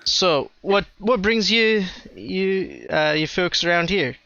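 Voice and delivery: put-on light, muddled Canadian-German-Spanish accent; mixed foreign accent. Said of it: "the Canadian, German, Spanish guy".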